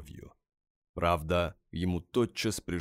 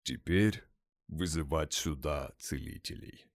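gloomy. Acted. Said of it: "угрюмо бросил Тёмный".

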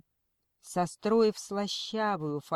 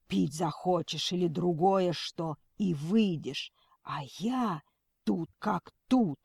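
menacing madman. Acted. Madman threatens TV host.

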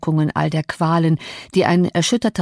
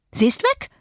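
high, rising alarm with the stress on weg; agitated outcry; 9 semitones higher than usual. A narrator's reading. Maid announcing the flight, high agitated cry.

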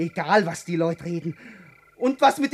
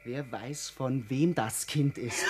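much softer and lower, cold aside; low cold jab; 12 semitones lower, 10 dB quieter than usual. Acted. Man coldly doubting he is the child's father. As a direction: drop your voice and sneer.

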